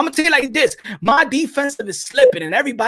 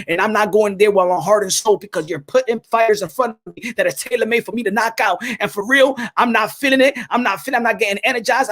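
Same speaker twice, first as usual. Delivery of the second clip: imitating Tank Davis. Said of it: "it's time for Gervonta Tank Davis to tell Floyd Mayweather".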